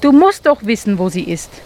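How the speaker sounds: beg, then drop to a breath; desperate plea. Acted. Mole begs the owl to know where she is, fading.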